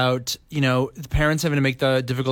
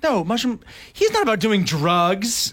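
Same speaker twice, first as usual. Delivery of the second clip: slow, raised scolding voice; mock studio executives; 4 semitones higher, slower than usual. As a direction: imitate an offended objector, stretching the words. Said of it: "They would be like".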